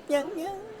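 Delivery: high, slow mocking laugh. Villager ending the gossip with a high, slow laugh. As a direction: laugh it off slyly.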